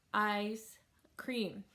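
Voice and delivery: "ice cream" with a long gap between words; two separate beats, "ice", then "cream"; syllable by syllable. Shown as a demonstration. Teacher showing the chin drop tip, "ice cream" in two beats. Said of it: "you have a syllable".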